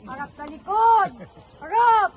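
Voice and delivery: loud barked drill commands; drill sergeant. Acted. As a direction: bark it at the platoon.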